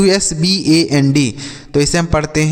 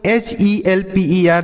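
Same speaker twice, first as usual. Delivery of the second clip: slow spelling out; 3 semitones higher, slower than usual. Shown as a demonstration. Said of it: "तो इसे हम पढ़ते हैं हेल्पर".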